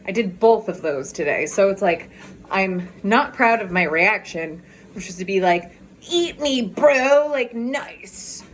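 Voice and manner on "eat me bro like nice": rude retort. Retold or imitated. Replying rudely to her brother, mock snarky. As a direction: toss it off with mock rudeness. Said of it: "in, like, a rude message".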